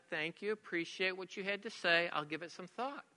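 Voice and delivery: soft, even politeness; de-escalating calm. Retold or imitated. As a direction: defuse it with a quiet thanks. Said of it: "I de-escalated the situation".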